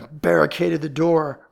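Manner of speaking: loud, slow, forceful growl. A narrator's reading. Ellery finding the door stuck, growling. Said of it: "growled Ellery".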